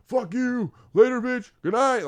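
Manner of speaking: high-pitched mock yell; screaming out window. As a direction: holler a taunt out the window at a buddy. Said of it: "like, screaming at him".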